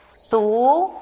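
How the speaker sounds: put-on slow, separate syllable for children; syllable drill. Shown as a demonstration. Teacher reading the S syllables to young pupils. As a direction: say the syllable on its own. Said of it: "Todos leamos".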